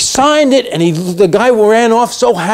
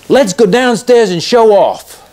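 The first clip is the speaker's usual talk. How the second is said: playful urging; 5 semitones higher, much slower than usual. Retold or imitated. Ali proposing they show off.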